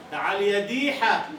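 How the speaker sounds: slow, coaxing call of ديحة; pet-name call. Retold or imitated. Calling a girl named Madiha by her pet name, slow and coaxing. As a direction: coax her fondly with the nickname. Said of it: "نحن في بلادنا ندلل".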